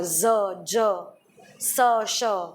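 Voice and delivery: sounds "ज़", "ज", "स", "श" said slowly and crisply, one at a time; careful sound demo. Shown as a demonstration. Guest explains Urdu pronunciation to the host, carefully sounding out "ज़", "ज", "स", "श". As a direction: separate each sound carefully: "ज़", "ज", "स", "श". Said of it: "मतलब आप कैसे बोल रहे हो".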